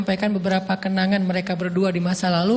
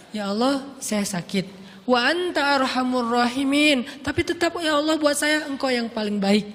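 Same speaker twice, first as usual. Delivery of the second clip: humble prayer; 3 semitones higher than usual. Shown as a demonstration. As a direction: pray shyly, trusting God. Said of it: "Gitu doang ngomongnya".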